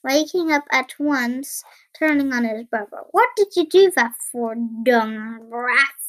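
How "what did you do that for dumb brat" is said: acted indignation. Woken giant turns on his brother, indignant. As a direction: fire it accusingly at a brother.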